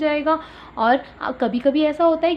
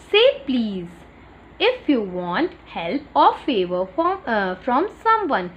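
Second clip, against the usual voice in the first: very slow, word by word; slow read-aloud; much slower than usual. Shown as a demonstration. Teacher reading the third rule aloud, very slow. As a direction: drag out each word for the class. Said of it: "teacher reads rule slowly".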